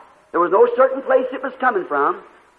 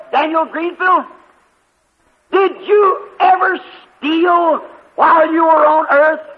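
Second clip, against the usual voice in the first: raised, solemn voice of a heavenly judge; voice of judgment; 3 semitones higher than usual. Retold or imitated. The judge questions the evangelist about lying, solemn raised voice. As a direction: call the sinner to account. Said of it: "the voice came back and said".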